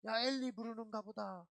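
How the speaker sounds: mock crowd taunting; lightly voiced mocker; jeering. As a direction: sneer at him from the crowd. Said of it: "그렇게 조롱을 합니다".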